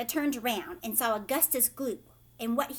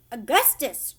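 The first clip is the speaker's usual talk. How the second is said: louder call of the name; crying out; 8 dB louder than usual. A narrator's reading. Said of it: "cried Mister Gloop".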